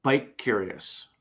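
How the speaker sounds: slow, drawn-out punchline. Acted. Joke teller landing the bike punchline slowly. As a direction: let the punchline land slowly.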